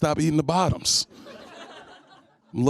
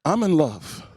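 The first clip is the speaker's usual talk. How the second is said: high stammered outrage, much higher; flustered mock woman; 4 semitones higher, slower than usual. Comic rebuffing a woman asking about wings, high flustered stammer. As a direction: stammer like a taken woman offended. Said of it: "I said".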